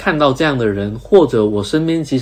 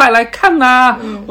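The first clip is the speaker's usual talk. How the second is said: put-on very high, shrill yelled hollering; 12 semitones higher, 4 dB louder than usual. Criticizing writers who want attention, acting out one of them shouting. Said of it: "大喊大叫说".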